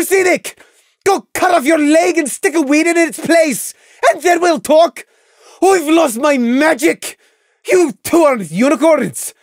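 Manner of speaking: high, loud, furious ranting; spiteful tirade. A narrator's reading. Lily raging over lost magic, spiteful shouting. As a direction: yell scornfully at all of them.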